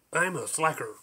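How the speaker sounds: light, happy chirp; chirped happily. Acted. Porpoise happily admitting to being a slacker, chirpy. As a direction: chirp it out cheerfully, pleased with himself. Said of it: "The porpoise chirped happily".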